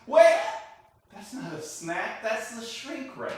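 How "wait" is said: sudden loud alarmed cry; shouting. Real, not acted. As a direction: yell to stop them. Stopping someone eating shrink ray.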